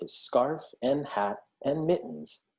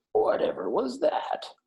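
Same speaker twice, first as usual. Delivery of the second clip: higher, startled badger; startled cry; 11 semitones higher than usual. A narrator's reading. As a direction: cry out at a sudden thud. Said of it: "he cried".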